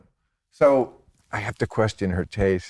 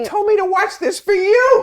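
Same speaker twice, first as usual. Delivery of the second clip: laughing; 5 dB louder than usual. Real, not acted. Laughing protest at the guest.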